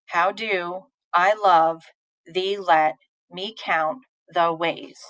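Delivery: slow, split into two-beat feet: "How do", "I love", "thee, let"; sing-song meter. Shown as a demonstration. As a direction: pause after each pair, stressing "do", "love", "let". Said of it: "if you're sing-songing it".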